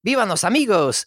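a mock village cheer; villagers cheering. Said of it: "The villagers all cheer".

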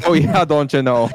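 put-on laughing Minnesota accent echo. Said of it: "Haven't heard you do that in a while".

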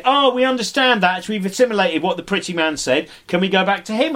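a hopeful crowd asking for the pretty man; eager audience members. Retold or imitated. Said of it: "they say".

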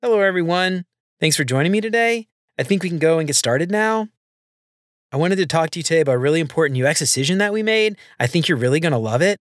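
rising question tune on every statement; up talk. Shown as a demonstration. Presenter demoing uptalk to a meeting, rising tune. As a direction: end each sentence going up like a question. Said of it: "sound like you're questioning everything".

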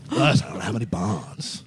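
slow, drawn-out comedian impression; Tim Dillon. Friend trying the comedian's voice, slow impersonation. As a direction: do a slow, shaky attempt at the comic. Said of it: "know that about Tim Dillon".

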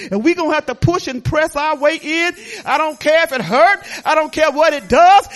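preacher rallying the church; full force preaching. Real, not acted. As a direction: shout down the pain. Preaching climax.

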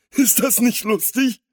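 high, loud, amused crook; giggly villain. A narrator's reading. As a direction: ask it like a tittering villain. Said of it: "kicherte der Große". (kichernder Schurke)

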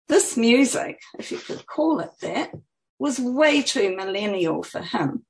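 measured, lilting author reading; expressive book-reading voice; story narration. A narrator's reading. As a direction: read your own story aloud with lifted phrases. Reads her book aloud.

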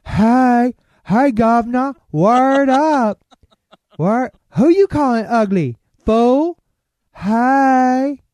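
very high, loud comic squawk; over-the-top character impression with a Cockney greeting; Wanda. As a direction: push the sketch voice high and loud. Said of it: "like, the other lips".

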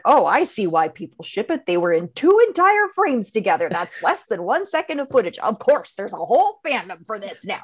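lightly voiced kid ranting at the screen; kid yelling at TV. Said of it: "I heard you yell something like".

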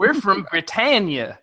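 slow, proud put-on Brit voice; mock British accent; mock English accent. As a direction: announce it like a pompous Briton. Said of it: "I thought you were doing a northern accent".

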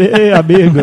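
mock sportscaster call; Galvão Bueno impression. Podcaster imitating the match narrator for friends, announcer impression. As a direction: hail viewers like a football announcer. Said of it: "começa a narrar igual o Galvão Bueno".

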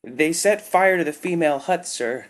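high, loud, distraught cry; sobbing. A narrator's reading. Worker tells Tagath the females were burned, sobbing. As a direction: choke out the horror. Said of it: "the worker sobbed".

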